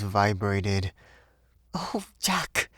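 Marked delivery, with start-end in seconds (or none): 1.7-2.7 put-on higher, frightened young woman crying out. A narrator's reading. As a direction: cry out in fear. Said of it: "she cried".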